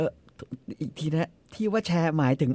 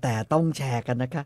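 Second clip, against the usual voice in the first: 1 slow coy reply; 3 semitones lower than usual. Retold or imitated. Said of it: "Hermes ตอบมา".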